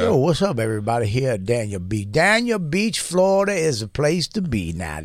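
lightly voiced Florida swamp guy, fast and loose; a hint of a backwoods Florida hype man; swamp person. Friends joking, he mocks a Florida swamp person. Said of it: "You're doing a fucking swamp person".

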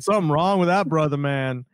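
light quick take on McNabb; Donovan McNabb impression. Co-host redoing McNabb for his partner. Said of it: "that is exactly how he said it".

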